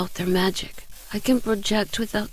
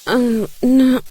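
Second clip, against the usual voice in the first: giddy joke; 4 semitones higher, 8 dB louder than usual. Acted. Dazed pixie jokes while rescued.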